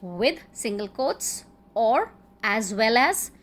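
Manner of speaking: slow, deliberate "with" and "or as well as"; drawn-out connecting words; slow emphasis. Shown as a demonstration. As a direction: spell out "as well as" slowly for the class. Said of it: "joined with".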